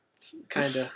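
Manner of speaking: distant voice from the bathroom; from another room. Real, not acted. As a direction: speak from across the house. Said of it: "I'm in the other room".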